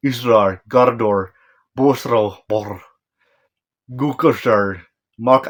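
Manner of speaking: halting, faked Norse incantation; attempted Norse. Shown as a demonstration. Reviewer attempting Odin's spell in Norse, halting mock-Norse chant. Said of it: "let me try Norse translation".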